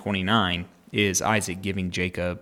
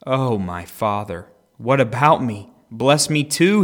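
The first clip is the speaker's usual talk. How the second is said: mild acted plea, rising and louder toward the end; bitter begging cry; 3 semitones higher, 7 dB louder, slower than usual. A narrator's reading. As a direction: beg with a touch of anguish, building. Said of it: "let out a loud and bitter cry".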